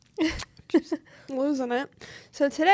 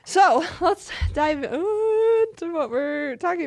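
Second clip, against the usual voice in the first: loud; 5 semitones higher, 6 dB louder than usual. Real, not acted. Host kicks off episode.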